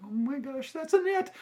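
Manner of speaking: high-pitched retold gasp of recognition; startled dread. Student spots the teacher he avoided in copy room, startled. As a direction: reenact a panicked double take, pitch leaping up.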